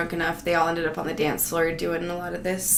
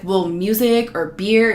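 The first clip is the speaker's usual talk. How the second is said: shitty attitude; 2 semitones higher, 7 dB louder, slower than usual. Retold or imitated. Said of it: "this really shitty attitude".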